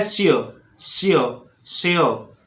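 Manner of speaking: "सियो" ending on o, no ks; silent x. Shown as a demonstration. Teacher modelling the word for learners, silent x. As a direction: say "सियो" with the x dropped. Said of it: "इसको बोलना है".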